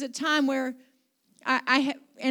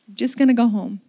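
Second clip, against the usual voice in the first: louder, settled declaration; firm repeat; 3 semitones lower, 8 dB louder than usual. Retold or imitated. Pastor restating her decision to head home, louder and firm. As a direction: repeat the decision out loud, firmly.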